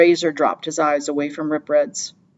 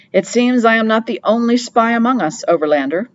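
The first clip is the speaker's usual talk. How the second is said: wry; 6 semitones higher, 4 dB louder than usual. Acted. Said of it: "said Rip Red wryly".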